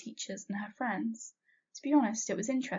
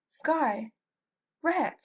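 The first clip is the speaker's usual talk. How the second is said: loud call, much higher on Rhett; yelling; 7 semitones higher, 6 dB louder than usual. A narrator's reading. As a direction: call out across the house. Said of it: "I yelled".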